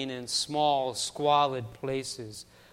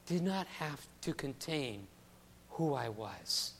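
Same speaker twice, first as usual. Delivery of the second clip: tender memory; 4 dB quieter than usual. Retold or imitated. Ursula's grown-up quote, reflective.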